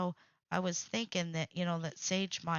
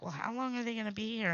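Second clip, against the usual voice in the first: quoting mom; 4 semitones higher, much faster than usual. Retold or imitated. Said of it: "Mom was like".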